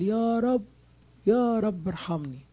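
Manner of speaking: anguished cry for mercy; crying out to God. Retold or imitated. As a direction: beg the Lord aloud, drawn out. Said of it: "راح صارخ صرخة قوية".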